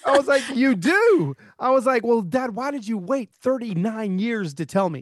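high-pitched laughing protest to dad; retold laughing disbelief. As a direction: laugh through a mock-indignant question. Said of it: "And I started laughing".

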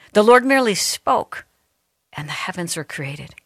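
dramatic Bible reading with sweeping rises and hushed drops; reverent scripture reading. Acted. Radio host reading a psalm to listeners, reverent and dramatic. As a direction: proclaim each verse, pausing between phrases.

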